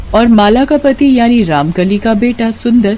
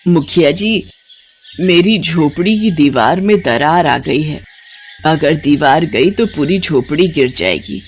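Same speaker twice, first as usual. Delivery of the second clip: put-on humble pleading old woman; 3 semitones lower than usual. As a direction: beg the headman for a little soil. Ramkali pleads with headman. (मुखिया से विनती करती बूढ़ी औरत)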